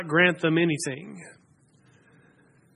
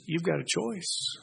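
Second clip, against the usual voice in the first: much softer and slower; quiet retelling; 11 dB quieter than usual. Retold or imitated. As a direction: say the choice gently and close to the people. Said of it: "Joshua looks at the people and says".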